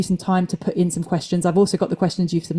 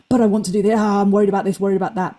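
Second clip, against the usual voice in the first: mild mock fretting; swept-up worrying; faster than usual. Coach voicing someone swept up in worries, mock fretful. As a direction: act lightly carried away by worries. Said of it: "not to get swept up".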